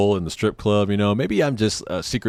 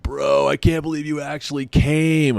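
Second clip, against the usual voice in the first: higher-pitched mock-drunk amazement; drunk buddy; 7 semitones higher than usual. Drunk friend greeting his ride, high imitated gushing. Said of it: "so he's drunk".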